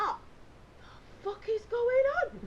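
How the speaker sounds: high, loud, slow outraged wail; livid. Retold or imitated. Woken camper to self, livid. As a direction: drag it out in comic fury. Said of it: "I'm livid".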